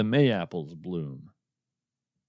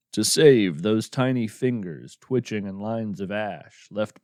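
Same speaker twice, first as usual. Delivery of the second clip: poem reading. Acted. Host reads listeners a grim poem, measured poem reading. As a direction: read the poem like a dark lullaby.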